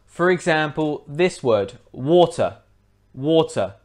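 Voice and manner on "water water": water with a clear T between vowels; T sounded. Shown as a demonstration. Teacher giving the word before removing T, clear T. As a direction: pronounce the T fully in water. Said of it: "If we take away the T".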